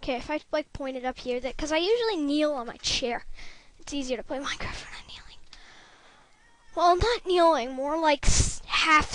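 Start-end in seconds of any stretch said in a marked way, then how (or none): 3.8-5.4 whisper. Real, not acted. Quick whispered aside.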